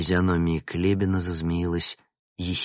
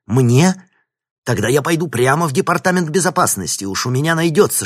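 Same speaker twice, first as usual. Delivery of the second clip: loud, higher defiant outburst; defiant exclamation; 8 semitones higher, 9 dB louder than usual. A narrator's reading. Vinnik threatens to go to security, loud defiant. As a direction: throw the threat back, loud. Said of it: "воскликнул он".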